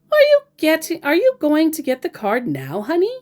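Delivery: high, loud, pushy asking; pushy scammer. Retold or imitated. Scammer pushing the vlogger to buy the fan card, high and insistent. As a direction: press him for the card, needling. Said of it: "still going on about the fan card".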